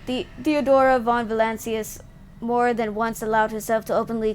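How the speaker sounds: measured narrator voice reading the scene; game dialogue read. Acted. Streamer reading the tribunal scene aloud, measured and formal. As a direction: read the Inquisitor's charges like a story.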